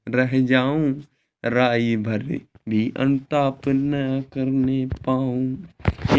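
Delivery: slow, measured verse reading; poem recitation. Acted. Teacher reading Kaikeyi's remorse verse to the class, slow recitation. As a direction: recite the verse slowly and deliberately.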